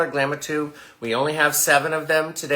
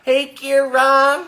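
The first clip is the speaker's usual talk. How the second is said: long, high, loud hello; exaggerated greeting; 9 semitones higher, 6 dB louder, much slower than usual. Shouting out to a new buyer, exaggerated greeting. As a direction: call it out high and stretch the name.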